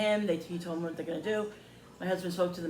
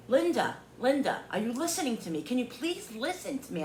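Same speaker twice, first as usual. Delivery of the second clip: higher-pitched imitation of his plea; exasperated pleading; 5 semitones higher than usual. Woman mimics seller begging Linda to listen, exasperated. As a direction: beg to be heard, mimicking him.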